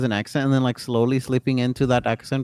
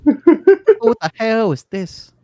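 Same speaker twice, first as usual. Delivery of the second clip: baffled; 7 semitones higher, 6 dB louder, much slower than usual. Real, not acted. Baffled reaction to voice.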